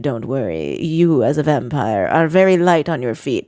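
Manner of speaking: low vampire voice. Retold or imitated. Vlad reassuring Chelsea about floor.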